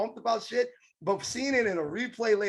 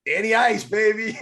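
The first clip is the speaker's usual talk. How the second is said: hype call; 6 dB louder than usual. Real, not acted. Hyping the new nickname.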